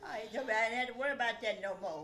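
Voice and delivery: fast, laughing through it. Real, not acted. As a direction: rattle it off with a laugh. Laughing, quick retelling.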